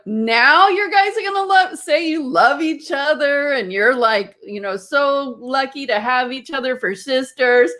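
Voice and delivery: starts high, incredulous and annoyed; mock-indignant complaint to the sisters; exasperated disbelief, easing off as it goes; retold irritation. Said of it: "I was so irritated".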